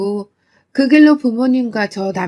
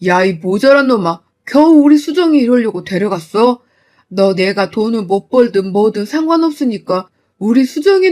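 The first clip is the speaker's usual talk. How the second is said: furious berating; 4 dB louder than usual. Retold or imitated. Father berating the son-in-law after hitting him, furious. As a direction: rage at him, loud.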